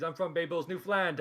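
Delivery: Bay Bulls and Newfoundland in a broad Newfoundland accent. Shown as a demonstration. Introducing his hometown to the group, in Newfoundland accent. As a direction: say where you're from like a Newfoundlander. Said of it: "do it in the accent".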